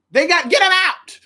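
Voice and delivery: high urgent plea to God; pleading prayer. Retold or imitated. Praying to God to remove people. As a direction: beg God to clear them out. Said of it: "where I said".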